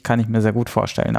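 ordinary talk

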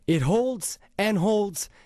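slow, spaced-out ad tagline; slow slogan. Acted. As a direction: lean on each holds, slowly. Closing slogan of the ad.

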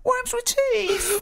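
very high, slow, stretched-out reveal; big mock announcement. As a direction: unveil it like a grand secret, dragging every word. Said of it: "wait for this".

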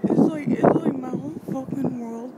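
emotional outburst. Acted. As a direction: let the grief boil into yelling. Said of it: "I'm gonna get emotional".

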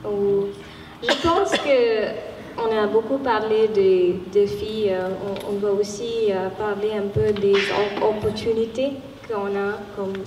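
non-native French, Indian-accented; halting French with an Indian accent; foreign accent in French. Real, not acted. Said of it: "désolée, mon français c'est, c'est pas très".

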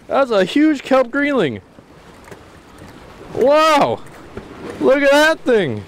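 real thrill, high and fast-breathing; excited. Real, not acted. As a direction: gasp it out as the fish fights. Landing a big fish, thrilled.

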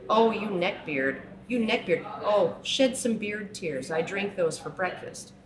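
slow, high, loud sneering parody; hammed-up gloating jeer; mocking taunt. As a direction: drag out the taunt like a gloating bully. Parodying taunts aimed at men.

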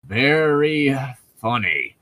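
sarcastic. Acted. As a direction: lean into the sarcasm on "Very funny". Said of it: "she said sarcastically".

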